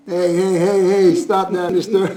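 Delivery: loud playful telling-off; half-joking stop that; mock scolding. Real, not acted. Scolding brother in jest.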